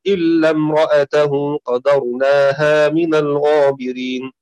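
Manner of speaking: slow, drawn-out tajweed recitation; Quran recitation. Shown as a demonstration. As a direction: recite it slowly, as in prayer. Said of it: "في سورة النمل". (تلاوة مرتلة بطيئة)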